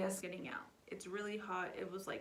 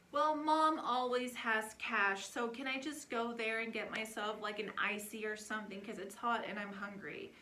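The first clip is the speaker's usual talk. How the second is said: put-on pleading kid; 6 dB louder than usual. Daughter asking for cash.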